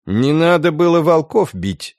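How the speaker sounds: stern reproach from an elder. A narrator's reading. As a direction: lay down the blame firmly. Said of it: "строго произнесла какая-то старуха".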